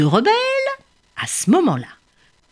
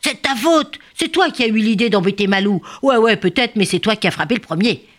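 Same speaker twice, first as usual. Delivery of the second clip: squabbling; 5 semitones higher than usual. Acted. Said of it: "se chamaillent".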